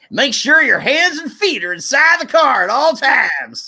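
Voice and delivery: put-on high, cackly wheezy old timer; old prospector voice. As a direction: ham up a grizzled prospector. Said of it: "make fun of the old prospector voice".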